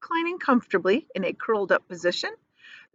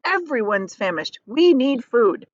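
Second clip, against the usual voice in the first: lightly voiced centipede; 4 semitones higher, 4 dB louder than usual. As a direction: insist on food. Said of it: "The centipede sat up".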